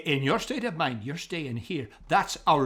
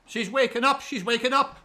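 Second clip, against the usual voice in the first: excited, higher repeated announcement; 7 semitones higher than usual. Acted. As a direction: call out eagerly that she's coming round. Man sees woman revive.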